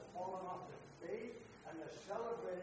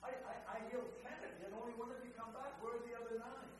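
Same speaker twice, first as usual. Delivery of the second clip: lightly voiced Jesus, puzzled; 5 semitones higher than usual. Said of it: "Jesus is sort of said".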